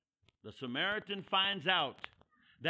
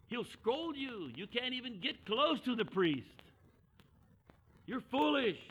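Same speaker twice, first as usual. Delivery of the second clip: scolding objection; 5 semitones higher than usual. Retold or imitated. Peter argues with the Samaritan.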